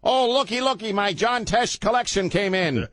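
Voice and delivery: high, gee-whiz mock white guy. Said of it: "let me use my white guy voice".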